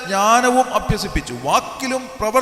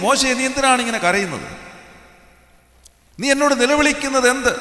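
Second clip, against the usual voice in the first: lightly raised preacher's questioning; preaching challenge; 3 semitones higher than usual. Acted. Preacher voicing God questioning a crying Moses, raised preaching challenge. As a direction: put the question to them in a lifted pulpit voice.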